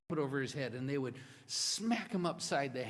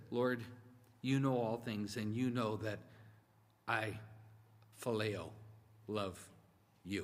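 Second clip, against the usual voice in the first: low, halting, sorrowful answer; a broken, hesitant confession; grieved Peter; 4 semitones lower than usual. Retold or imitated. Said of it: "Peter was grieved".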